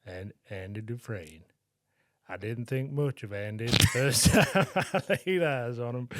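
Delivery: Morgan Freeman impression. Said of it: "Let me get into character".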